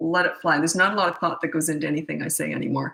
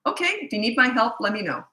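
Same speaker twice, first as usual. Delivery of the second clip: calm reassuring parent; 2 semitones higher than usual. Shown as a demonstration. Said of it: "just say".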